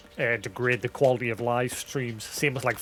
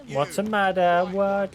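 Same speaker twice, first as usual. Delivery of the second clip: higher, louder startled questions; raised-pitch "what's wrong?" reaction; startled questioning; 7 semitones higher, 5 dB louder than usual. Real, not acted. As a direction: react to a sudden commotion. Reacts to sudden in-game commotion.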